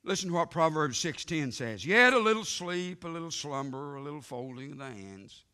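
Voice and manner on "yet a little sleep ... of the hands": loud first words, then fading into a drowsy lull; scripture read that drops off toward sleep; booming scripture. Acted. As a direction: start big and let it sink. Quoting Proverbs on sleep.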